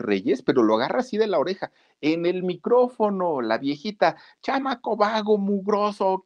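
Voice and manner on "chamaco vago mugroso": angry grandma. Retold or imitated. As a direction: scold him like a furious granny. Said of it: "pero bien enojada". (abuela regañando, voz aguda de viejita)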